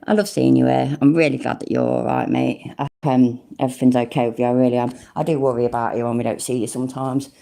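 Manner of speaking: low, gentle, caring reassurance; tender sincerity. Real, not acted. Reassuring a friend in chat.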